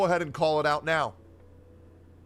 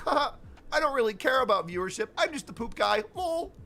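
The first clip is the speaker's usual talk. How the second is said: mocking quote; 5 semitones higher than usual. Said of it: "While you say".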